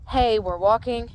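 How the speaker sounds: firm, emphatic nudge to the horse. Shown as a demonstration. Trainer asking the horse to walk, emphatic. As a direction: lean on "Hey, we're walking". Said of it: "put a little bit more emphasis on it".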